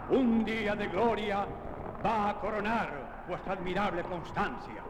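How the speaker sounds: rallying harangue. Acted. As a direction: rouse the soldiers for battle. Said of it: "Luego arenga a los soldados".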